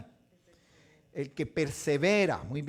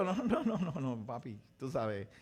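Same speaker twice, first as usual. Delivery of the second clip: calm fatherly God; 3 semitones lower than usual. Retold or imitated. God answering Jacob.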